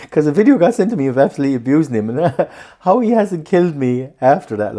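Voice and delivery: words spilling out fast through giggles; can barely get it out for laughing; laughing while talking. Real, not acted. Cracking up while confessing about teasing his mate on video.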